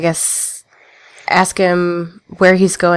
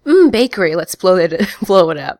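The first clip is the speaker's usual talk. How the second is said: mock quote. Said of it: "So you just said".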